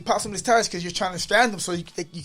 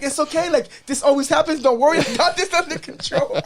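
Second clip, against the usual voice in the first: mock calm; 10 semitones higher, 6 dB louder than usual. Reassuring the workers, high.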